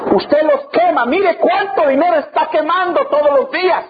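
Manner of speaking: emphatic rebuke. Retold or imitated. Preacher confronts a man about wasted money, emphatic rebuke. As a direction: drive the accusation home, stretching the key words.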